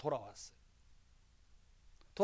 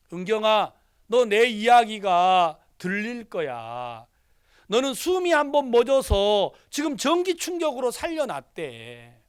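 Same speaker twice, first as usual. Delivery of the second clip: louder, slow earnest preaching; fervent prayer; 4 semitones higher, 8 dB louder, slower than usual. Acted. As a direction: pour it out like a bedside prayer. Pastor praying over unconscious niece. (의식 없는 조카에게 간절히 기도하는 설교조)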